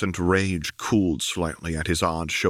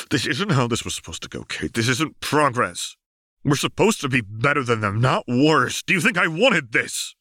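anguished; 7 semitones higher, 3 dB louder than usual. Acted. Jace anguished pleading.

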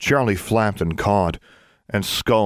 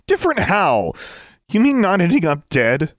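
high, sharp sarcastic anger; mocking furious challenge; bitter retort; 10 semitones higher, 3 dB louder than usual. A narrator's reading. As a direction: spit the question back. Angry girl retorts to the ghost.

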